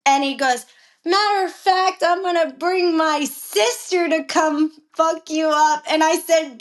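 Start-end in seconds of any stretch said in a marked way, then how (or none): 1.1-5.8 higher-pitched imitation of his threat; retold threat. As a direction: act out a rival upping the threat. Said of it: "he's cursing me out".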